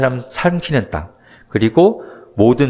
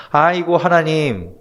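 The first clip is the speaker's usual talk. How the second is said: mock wailing lament. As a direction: wail it out like a grieving crowd, lightly played. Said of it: "막 통곡하면서 울고 있는 거죠".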